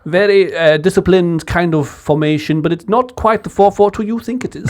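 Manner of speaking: a hint of posh English, fast; posh English accent. Friends egging him into his posh English voice. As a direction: clip it like a posh pundit. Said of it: "Do your posh English one".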